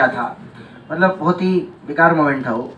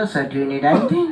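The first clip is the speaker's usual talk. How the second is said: full-tone air hostess; 4 semitones lower, 6 dB quieter, much slower than usual. Retold or imitated. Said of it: "पूरी tone में बोला".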